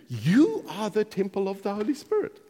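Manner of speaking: "you" stretched and stressed, meaning all of you; collective "you". Shown as a demonstration. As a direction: lean on "you" as a plural. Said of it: "He's saying you collectively".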